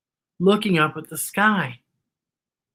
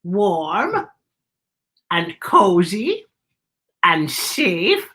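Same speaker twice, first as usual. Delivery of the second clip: slow, gently voiced wise woman; Beatrice's voice; 3 semitones higher, 4 dB louder, slower than usual. A narrator's reading. Beatrice telling Z what love is, gently. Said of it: "She said".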